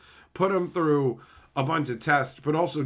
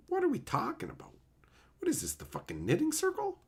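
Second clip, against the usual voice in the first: mock outrage; 12 semitones higher, 6 dB quieter, faster than usual. Real, not acted. Mocking chat's jargon.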